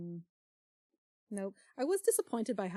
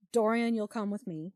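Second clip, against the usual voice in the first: Henry line; 4 dB louder than usual. Acted. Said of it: "Henry says".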